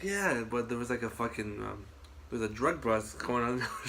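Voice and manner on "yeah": high-pitched pretend cheer; retold excited scream. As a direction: imitate mom yelling with joy, held back. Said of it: "screaming top of her lungs".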